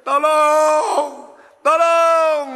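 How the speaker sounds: high, loud cry of tolong from a pit; crying for help. Acted. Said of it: "dia teriak".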